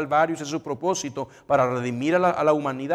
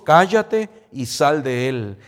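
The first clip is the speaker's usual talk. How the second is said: rebuke; 4 dB louder, slower than usual. Acted. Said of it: "le reprendió".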